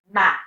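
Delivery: man with a clear open A; full vowel. Shown as a demonstration. Teacher contrasting man with postman, full vowel. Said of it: "you see how that sounds completely different".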